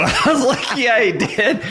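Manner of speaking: can't hold back the laugh as you tell it. Real, not acted. Laughing while retelling.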